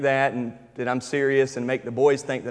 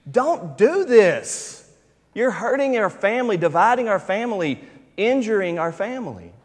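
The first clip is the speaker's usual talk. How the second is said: put-on earnest little girl; 7 semitones higher than usual. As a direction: play the toddler begging Daddy in dead earnest. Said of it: "she cries out with great seriousness".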